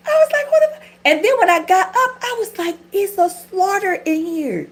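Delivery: high, loud laughing retelling; cracking up, voice up high and loud; shrieking laughter through the story; laughing hard. Real, not acted. Laughing hysterically retelling hospital scene.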